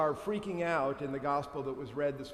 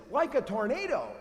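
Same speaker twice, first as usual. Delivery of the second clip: high and loud, tornado stressed; dramatic emphasis; 7 semitones higher, 6 dB louder than usual. Shown as a demonstration. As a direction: sell the violence of the storm. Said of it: "The Greek says".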